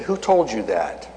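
slow, deliberate challenge, lightly acted; voice of God. God challenges the preacher's fear, lightly acted and slow. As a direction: lightly voice God, each word given time. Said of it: "He said".

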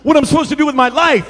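hyped up. Retold or imitated. Student back home telling her pastor her calling, hyped up. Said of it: "all hyped up".

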